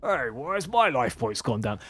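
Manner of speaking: put-on older British Cockney accent. Recapping a match, speaker quotes the player hit by reflected damage in an old Cockney voice. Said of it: "become even older and more British, more Cockney".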